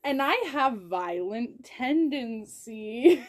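slow, deliberate anger, played up; very angry. Real, not acted. Friend fuming on the insulted girl's behalf, very angry. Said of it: "I am very angry".

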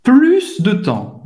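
PLUS slowly, with a hissed final S; final S pronounced. Shown as a demonstration. Teacher correcting a forgotten letter, S sounded in PLUS. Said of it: "Você tem que pronunciar o S no final".

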